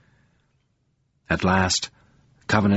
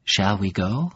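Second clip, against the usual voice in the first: gentle giant. A narrator's reading. The giant gently inviting grieving Covenant to leave. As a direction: ask it kindly, so as not to startle. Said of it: "the giant's voice came gently".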